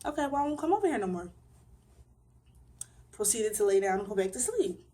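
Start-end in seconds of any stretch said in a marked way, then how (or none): 0.0-1.3 fast, higher, hurt and huffy; lightly voiced younger self, fast and higher; quick higher mock reply. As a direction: rattle off her younger self's comeback. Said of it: "So I was like".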